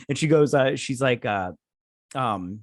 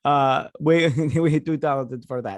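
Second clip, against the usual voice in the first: amused quote; 5 dB louder than usual. Retold or imitated. Amused repeat of the retold boast.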